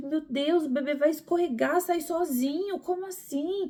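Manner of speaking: high, panicked, desperate cry.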